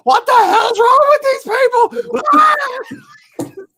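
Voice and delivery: high, loud mock screaming; retold yelling. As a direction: yell it like an outraged clerk. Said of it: "she started yelling and screaming".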